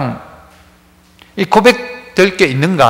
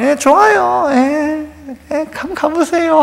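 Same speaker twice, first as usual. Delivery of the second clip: mock glib answer; 7 semitones higher, 4 dB quieter, slower than usual. Mock weak answer to questioner.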